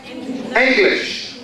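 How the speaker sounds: "English" stressed on the first syllable, ENG-lish. Shown as a demonstration. Teacher gives an example of the rule, "English" stressed ENG-lish. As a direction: lean on ENG in "English", let the ending fall. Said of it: "Where is the stress".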